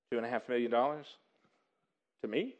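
stunned. Acted. Stunned employee handed a fortune.

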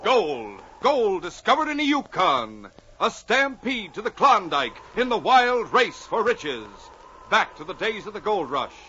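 dramatic announcer read; radio announcer. Acted. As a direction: build excitement like an old radio intro. Announcer dramatic intro continues.

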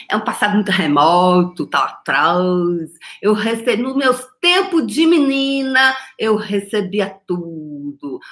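ordinary talk, nothing marked

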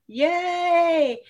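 mock cheer in a tiny high voice; high squeaky yay. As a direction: squeal it like a forced celebration. Mock cheering over taxes.

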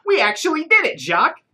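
triumphant joy. A narrator's reading. Triumphant after recovering painting.

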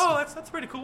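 squeaky, stunned, loud and high; high-pitched mock impressed. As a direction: squeak it out in disbelief. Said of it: "I'm like".

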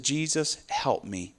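soft, humble cry for help; a quiet prayer of surrender; quiet plea for help. Retold or imitated. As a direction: hush it to a plea. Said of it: "we said".

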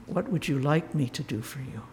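softly, with quiet respect for the beggar; sensitive, gentle. Retold or imitated. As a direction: offer it gently, no hint of power. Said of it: "So sensitive".

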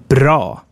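bra with a long, dark back 'aah'. Shown as a demonstration. Teacher asking learners to repeat, long A in bra. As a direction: model bra slowly for repeating, vowel held. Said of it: "So please repeat after me".

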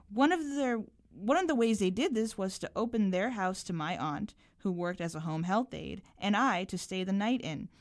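measured, carefully articulated reading aloud; literary reading with lightly voiced dialogue; story narration. A narrator's reading. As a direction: read your short story to listeners, unhurried. Reads own story aloud.

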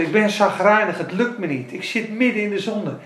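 ordinary talk, nothing marked

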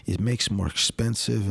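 broken English in a mild imitated Russian accent; thick Russian accent.

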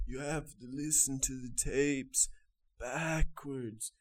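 put-on Irish accent. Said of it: "This character".

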